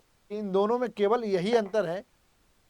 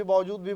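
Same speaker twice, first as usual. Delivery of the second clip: बावजूद hit hard and louder, भी light; stress on बावजूद; 5 dB louder than usual. Shown as a demonstration. Teacher to exam students, stressing बावजूद firmly. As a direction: lean on बावजूद to flag it. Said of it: "एक चीज ध्यान दो".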